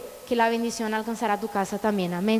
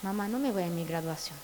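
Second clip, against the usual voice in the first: telling her mother; 7 semitones lower, 8 dB quieter than usual. Retold or imitated. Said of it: "y yo le dije a mi mamá".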